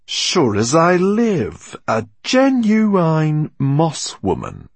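loud, slow rough growl; growling Firefox. A narrator's reading. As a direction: growl it out slowly. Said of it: "growled Firefox".

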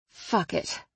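breathy resigned whisper. Acted. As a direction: give up under your breath. Muttered resignation to herself.

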